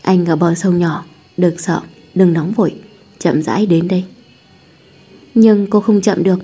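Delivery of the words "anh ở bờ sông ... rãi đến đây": gentle male lead, slightly lowered voice; a hint of a calm, reassuring man; lightly voiced tender boyfriend. Boyfriend guiding her to the riverside by phone, calmly reassuring.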